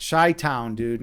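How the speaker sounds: "Chi-Town" with Chi said like shy; Chicago pronunciation. Shown as a demonstration. Showing chat how Chicago says it, shy-town. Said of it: "you're not saying it right".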